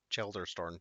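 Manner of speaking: Chelderstorn, with an L after the E, not Cheddar; corrected pronunciation. Shown as a demonstration. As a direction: say Chelderstorn carefully, Chel-der-storn. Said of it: "not Cheddarstorn".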